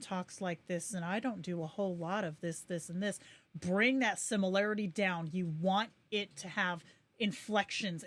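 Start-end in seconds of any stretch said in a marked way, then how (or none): 0.0-3.2 mild monotone, little pitch movement; monotone demo. Shown as a demonstration. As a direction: keep the tune level, demonstrating a dull delivery. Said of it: "clip that's really monotone".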